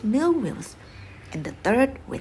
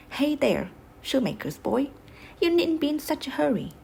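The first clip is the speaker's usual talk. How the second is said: a quick call, pitched up through the bars; 5 semitones higher than usual. Acted. Soldier in jail calling out to the shoemaker's boy, quick and raised. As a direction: hail the running boy from the cell window.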